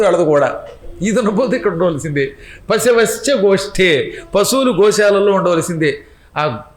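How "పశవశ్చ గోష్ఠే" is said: measured Sanskrit chant; slow scriptural recitation. Acted. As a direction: chant the Sanskrit line slowly. Sanskrit verse quoted.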